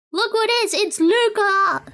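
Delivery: light up as a favorite appears; excited discovery. Real, not acted. Vlogger sees a beloved character, thrilled high cry.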